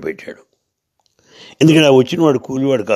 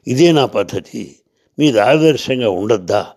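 mild retold rebuke, slightly raised; firm scolding. Porter scolding the society leaders, mildly firm rebuke. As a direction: lecture them firmly, wagging a finger in your voice. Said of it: "గట్టిగా గదం వేస్తూ మాట్లాడాడు".

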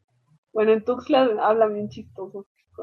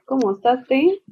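Yucatec accent; 4 semitones higher than usual. Shown as a demonstration. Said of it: "imitar un acento yucateco".

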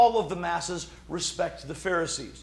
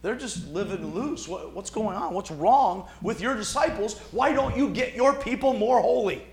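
a hint of scandalised accusers; critics mocking; 4 semitones higher than usual. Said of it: "your guys are like".

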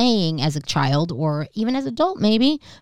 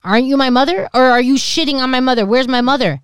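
louder, mock-confused child; sassy kid; 6 semitones higher, 6 dB louder than usual. Daughter taunting her mother over the curse, a loud mock-confused voice. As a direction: taunt mom with fake confusion. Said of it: "I'm like".

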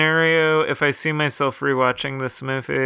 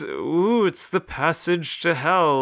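lightly mocking ghostly psychic, a bit higher; mock-spooky medium's warning; 4 semitones higher, slower than usual. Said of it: "like, in a spooky voice".

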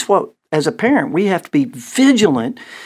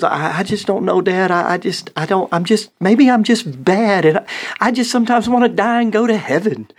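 higher, hammed-up whimper of a teen; mock melodramatic daughter; 5 semitones higher than usual.

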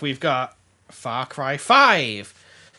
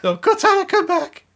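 high, loud melodramatic cry; mock desperate calling; 8 dB louder than usual. Friend parodying the Titanic scene with Halo names, mock desperate shouting. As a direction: shout after them in hammed-up anguish. Acting out a parting, Titanic-style.

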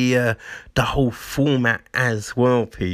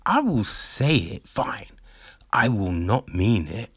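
acted reluctant compliance, dropping lower; grudging apology; 3 semitones lower than usual. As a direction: give in word by word under protest. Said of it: "they force you to apologize".

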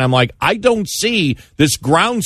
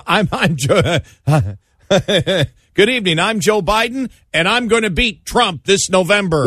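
laughing, high mock campaign intro; imitating a cheery Biden ad; feel good political ad; 5 semitones higher than usual. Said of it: "I'm thinking".

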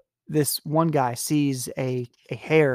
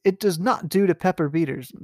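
mock aristocrat; 4 semitones higher, 3 dB louder than usual. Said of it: "it's like".

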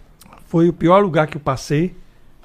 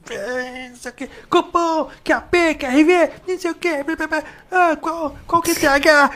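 higher radio-cop voice, mumbling codes; old cop on the radio; 12 semitones higher than usual. Retold or imitated. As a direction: imitate a veteran cop rattling off radio codes.

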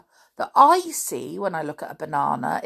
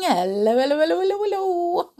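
rising hellos; 10 semitones higher, much faster than usual. Pretend. Rising sing-song hellos.

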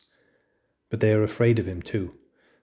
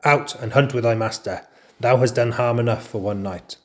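angry order; 2 semitones higher, 5 dB louder than usual. Acted. Father Wolf ordering jackal out.

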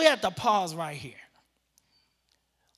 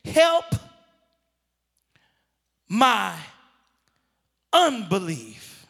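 cry out; 2 semitones lower, slower than usual. Acted. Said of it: "the Father cries out".

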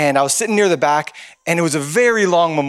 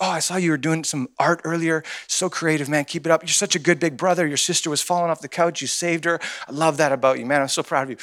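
tender encouragement; 5 dB quieter than usual. Retold or imitated. Uncle praising young nephew up close.

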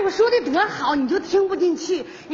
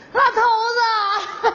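fake tearful wail; 3 semitones higher than usual. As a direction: ham up a pretend cry to your husband. Wife starts fake crying.

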